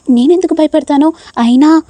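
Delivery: tearful protest. A narrator's reading. Nisha, caught out, denies it to Prem, tearfully. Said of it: "నిషా మాత్రం ఏడుస్తూ ఉంటుంది".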